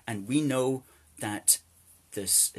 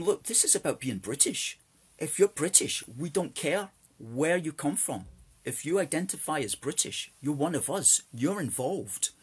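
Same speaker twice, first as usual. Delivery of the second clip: higher, louder, insistent street-stall answer; rallying the crowd, raised and insistent; emphatic raised reply; 6 semitones higher, 3 dB louder than usual. Retold or imitated. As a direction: make the point loud and firm. Their firm reply to visitors.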